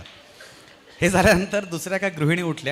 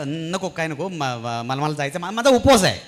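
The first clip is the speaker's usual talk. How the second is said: stuttering panic that jumps louder at the end; scared stammer; 5 dB louder than usual. Retold or imitated. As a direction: stammer out an excuse in a fright. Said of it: "मी घाबरून बोललो". (घाबरून अडखळत, शेवटी जोरात)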